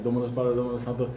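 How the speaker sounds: low murmured mock Latin chant; mock Latin prayer. Friends praying in Latin on the ice, low mock chant. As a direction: mumble it like a prayer. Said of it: "speaking in Latin".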